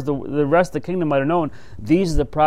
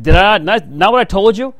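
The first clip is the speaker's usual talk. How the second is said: higher, louder I-told-you-so; exasperated king; 4 semitones higher, 4 dB louder than usual. Retold or imitated. King of Israel griping to Jehoshaphat, exasperated and raised. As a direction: complain with a huff.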